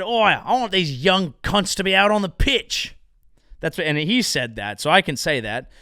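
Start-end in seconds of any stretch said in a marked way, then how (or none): 0.0-3.0 hammed-up Australian bloke; Australian accent.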